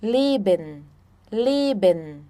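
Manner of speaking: Leben with a long closed e, LAY-ben; German pronunciation. Shown as a demonstration. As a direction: model Leben clearly for students.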